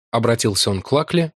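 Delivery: usual speaking voice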